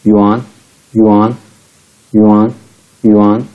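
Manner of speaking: युआन said as "yoo-ahn" with rising tune; say yuan. Shown as a demonstration. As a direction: model युआन clearly. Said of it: "वाई यू N".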